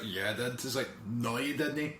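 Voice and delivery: put-on low, quiet Scottish accent bickering; muttered Scottish back-and-forth. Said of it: "you got really Scottish there".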